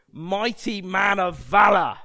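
loud, growly heroic declaration; growling heroic read. Shown as a demonstration. Preacher reading another translation of Gideon's title, growling. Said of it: "it growls when you read it".

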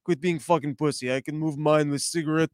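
lightly voiced low, dismissive smoker; mock tough-guy put-down, kept low; imitating unfazed tough guy. Smoker brushing off worried friends, lightly imitated tough nonchalance. Voicing unbothered smoking Ukrainian.

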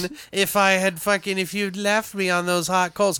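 high, put-on demon voice. Burnt demon to Scotty who left it on coals, demon voice. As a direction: taunt as a wronged, burnt demon. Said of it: "like, the demon's like".

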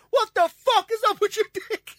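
hammed-up horror; shocked squeal. Friend sees his body: high, loud, shocked. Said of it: "He was like".

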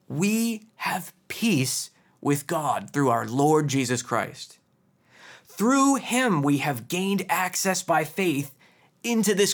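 slow, measured reading of scripture. Acted. Preacher reading Paul's letter to the congregation, slow and solemn. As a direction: lay each phrase out slowly, like reading from the pulpit. Reads Paul aloud.

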